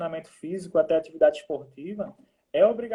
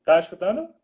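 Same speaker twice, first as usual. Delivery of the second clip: raised voice, calling down the line; to someone hard of hearing; 7 dB louder than usual. Real, not acted. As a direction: speak up over a bad connection. Checking a bad call connection.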